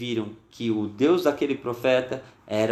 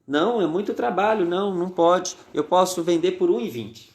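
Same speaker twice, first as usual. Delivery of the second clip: put-on a child insisting her potatoes are worth more; indignant little girl; 3 semitones higher than usual. Girl protests the lowball offer. (menina indignada, voz mais aguda, protestando)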